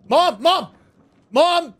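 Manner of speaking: high, loud pretend-kid yell; calling for Mom. Child tattling on playmate in danger, high loud calling. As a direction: holler for a parent to come.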